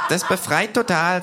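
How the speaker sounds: high, loud, slow kangaroo voice; delighted kangaroo. Acted. Kangaroo after the scream, high and slow. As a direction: savour it in a high voice.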